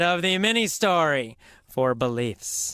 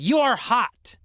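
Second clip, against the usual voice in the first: higher, louder mock exclamation; excited quote; 7 semitones higher, 4 dB louder than usual. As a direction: lightly re-enact her eager compliment. Re-enacts her yelled answer.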